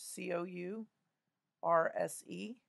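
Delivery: letters named one by one; spelling aloud. Shown as a demonstration. Teacher spells the word while writing it, letter by letter. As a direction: spell it out for the class. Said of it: "I'm spelling it out loud".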